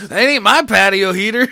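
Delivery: put-on loud drunk hick voice. Drunk suspect bit.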